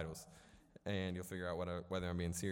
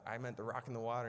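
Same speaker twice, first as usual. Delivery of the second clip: higher-pitched, hurried mock defence; defensive retort; 4 semitones higher, 4 dB louder, faster than usual. Kid defends his instruction to his sister, quick defensive retort. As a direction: fire back quickly, pitched up. Acted sibling quarrel, defending himself.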